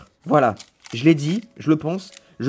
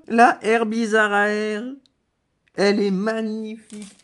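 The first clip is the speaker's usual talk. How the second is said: high, drawn-out excited marvelling; thrilled admiration; 10 semitones higher, 4 dB louder than usual. Real, not acted. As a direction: draw it out high, in real awe. Admires the card just pulled.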